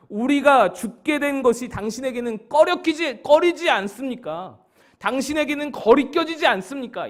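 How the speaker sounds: acted-out angry challenge to the teacher; angry disciples. Disciples protesting that their death troubles him little, angry. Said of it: "화가 잔뜩 나 있었습니다".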